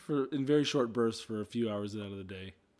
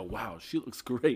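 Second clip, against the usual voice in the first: drawn-out leering compliment; slow admiring; much slower than usual. Shown as a demonstration. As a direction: say it slowly, lingering. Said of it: "and I go".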